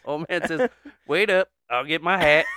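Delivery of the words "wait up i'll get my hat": put-on raised, higher Southern old-man voice; eager call. Old man delivering the punch line, called out.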